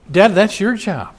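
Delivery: high, loud pointed address; pointed call to dads. Real, not acted. Preacher calling out the fathers, emphatic and high.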